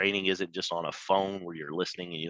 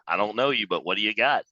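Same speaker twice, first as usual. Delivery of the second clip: louder, keen question; mock eager prospect, louder; 3 semitones higher, 7 dB louder than usual. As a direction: sound hooked and curious. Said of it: "Nobody says stuff like that".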